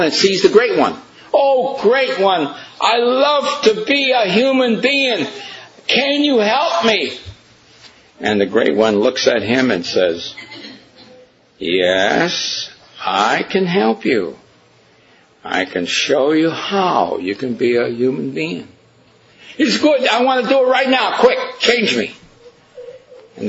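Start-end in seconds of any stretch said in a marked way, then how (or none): 1.3-7.2 high, slow, pleading plea; pleading dog. Acted. The dog begging the great one to make it human, high and slow. 11.6-18.7 low, slow, kindly answer; wise great one. Acted. The great one gently answering the dog, low and calm. 19.6-22.1 high, fast, eager shout; impatient dog. Acted. The dog begging to be changed right now, high and eager.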